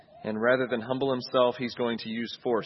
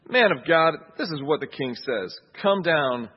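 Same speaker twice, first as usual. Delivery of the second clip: louder, insistent order; emphatic command; 2 semitones higher, 5 dB louder than usual. Acted. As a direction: demand it with force. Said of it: "He's more emphatic".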